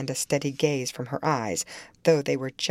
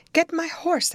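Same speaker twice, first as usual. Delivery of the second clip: imperious demand; 13 semitones higher than usual. A narrator's reading. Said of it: "addressing her unknown kinsman as she would one of the stable".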